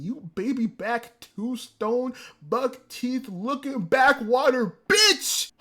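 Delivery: slow, drawn-out string of insults; angry insult. Retold or imitated. Viewer insulting Anna Shirley's rejected suitor, angry. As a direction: build slowly to the final insult. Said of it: "Oh, the anger I felt".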